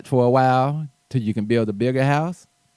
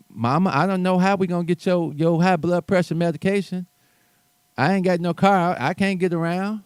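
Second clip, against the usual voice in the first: higher, pleading mock voice of a broke protester; a hammed-up plea, pitched up; mock whiny complaint; 5 semitones higher than usual. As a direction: whine it like a helpless child to mama.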